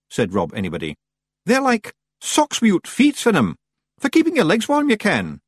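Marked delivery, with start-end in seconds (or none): 1.5-5.4 high, loudish Scots Feagle voice; high Scottish character voice; explaining Feagle leader. A narrator's reading. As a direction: pipe up like a wee Scotsman explaining.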